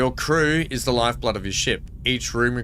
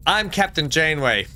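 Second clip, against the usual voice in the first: Janeway impression; 3 semitones higher than usual. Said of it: "That's how she used to say it".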